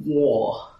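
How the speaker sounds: WAR set apart after a long pause, high and loud; difficult, foreign word. Acted. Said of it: "says the word like it is very difficult and foreign".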